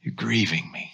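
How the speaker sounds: a hint of quiet, gentle sorrow; soft, grieved. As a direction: say it softly, like a hurt parent. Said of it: "the softness of God saying".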